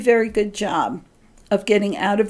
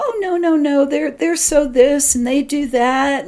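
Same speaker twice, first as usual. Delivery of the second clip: lightly acted dismissal, pitched up; hammed-up excuse-making in a higher voice; mock rationalizing; 4 semitones higher, 3 dB louder than usual. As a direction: play at brushing off a doubt, high and insistent. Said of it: "rationalize that little voice away and go".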